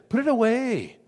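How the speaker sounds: firm rebuke. Retold or imitated. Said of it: "what was his reaction".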